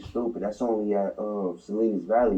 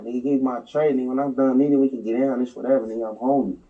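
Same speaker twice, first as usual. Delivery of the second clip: louder mock yell at the officer; retold shouted demand; 4 semitones higher, 5 dB louder, faster than usual. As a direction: bark it back, daring him. Retold jail standoff, demanding tray.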